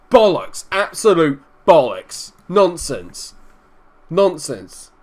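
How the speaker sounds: loud, indignant protest at the referee; angry gamer protesting an offside call, indignant. Real, not acted. Disallowed goal given offside.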